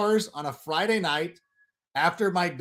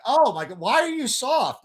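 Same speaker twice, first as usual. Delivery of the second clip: mock troll; 7 semitones higher than usual. Mocking a troll.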